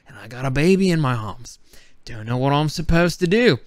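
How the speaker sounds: lightly put-on Australian accent. Wildlife guide showing zoo animals to viewers, Australian accent. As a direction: play at being a Steve Irwin-style Australian. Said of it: "I'm gonna be an Australian".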